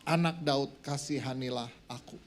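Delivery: emphatic, measured public scripture reading. Acted. Preacher reads the Bible story to the congregation, emphatic scripture reading. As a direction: read it out to the room, stretching key words.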